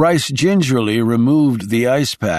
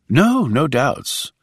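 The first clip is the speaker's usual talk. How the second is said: nervously; 5 semitones higher, slower than usual. Acted. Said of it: "Rice said nervously".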